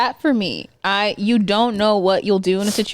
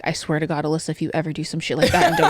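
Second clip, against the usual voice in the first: lightly voiced menacing mother; threatening mom; 4 semitones lower, faster than usual. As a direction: lower the voice into a mother's warning. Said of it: "she's like".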